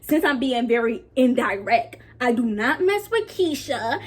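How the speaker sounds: deliberate, drawn-out call-out; re-enacted Snapchat rant. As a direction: act out your pointed video declaration. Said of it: "I was basically like this".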